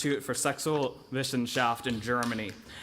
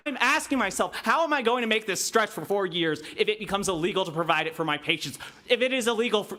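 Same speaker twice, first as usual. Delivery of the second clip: pleading urgently, close to breaking; anguished plea; 6 semitones higher, 3 dB louder than usual. Real, not acted. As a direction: voice climbing high and louder, straining with distress. Impassioned testimony, fearing loss of care.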